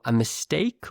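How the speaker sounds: standard British "mistake" with a gliding "ay"; standard British accent. Shown as a demonstration. Teacher gives learners both versions, this one standard British. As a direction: say "mistake" with a standard British diphthong in the second syllable. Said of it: "use the standard British pronunciation".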